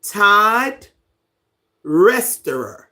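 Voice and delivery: Todd Resterer in two slow, separate pieces; Todd, pause, then Resterer with REST up front; sounding out name. Shown as a demonstration. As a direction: sound out Resterer with a short E, loudly. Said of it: "You say it like".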